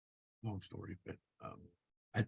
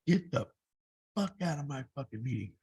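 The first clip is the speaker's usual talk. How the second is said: angry boss yelling; 3 semitones higher than usual. Retold or imitated. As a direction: bark him out of the meeting, mock yell. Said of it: "he goes".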